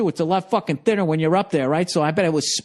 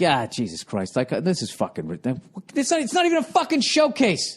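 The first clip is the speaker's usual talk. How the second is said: dejected mutter. Retold or imitated. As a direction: grumble it to yourself. Dejected after bad set.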